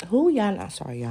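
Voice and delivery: talking around a mouthful of chips; chewing chips while talking; mouth full. Real, not acted. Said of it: "I'm eating some little chips".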